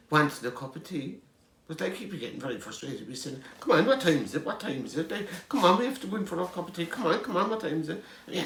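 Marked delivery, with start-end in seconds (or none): 3.6-8.0 raised, pushy hurry-up calls; impatient urging. Retold or imitated. Son badgering mum to break for tea, impatient and louder. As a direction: nag her to stop for tea.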